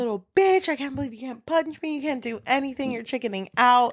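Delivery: acted-out taunting, needling him; hounding. Woman goading a man to punch her, hounding. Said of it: "she just starts hounding on him".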